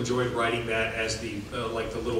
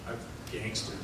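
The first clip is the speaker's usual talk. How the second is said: mock tough boast; 7 semitones higher, 9 dB louder, much slower than usual.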